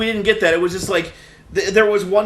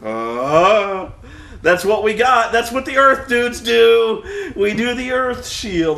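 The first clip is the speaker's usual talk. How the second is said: higher, louder, slowing dim-witted excuse; lightly voiced dopey fighter; 5 semitones higher, 3 dB louder, slower than usual. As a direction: play a slow, dopey guard who only knows one trick. Mocking the dull Earth fighters.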